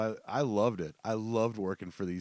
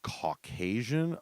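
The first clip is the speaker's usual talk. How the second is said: incredulous; 4 semitones higher, 3 dB louder, much slower than usual. Retold or imitated. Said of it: "I was like".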